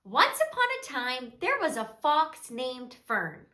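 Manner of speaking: soft, measured storybook narration; children's storytelling. A narrator's reading. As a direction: tell a gentle story to small children.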